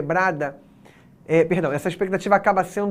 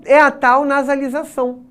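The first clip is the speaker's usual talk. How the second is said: ordinary delivery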